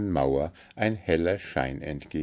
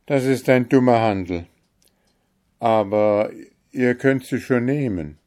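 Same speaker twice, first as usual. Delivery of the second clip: louder, coaxing the vizier; persuading; 5 semitones higher, 7 dB louder than usual. A narrator's reading. Kalif coaxes his Grand Vizier to marry the owl, louder. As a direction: talk him into the bad bargain.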